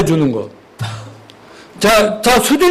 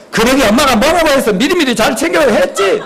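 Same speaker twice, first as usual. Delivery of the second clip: higher-pitched nagging, lightly acted; scolding mother; 4 semitones higher than usual. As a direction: chide the child with sarcastic praise. Acted scolding mother in bad example.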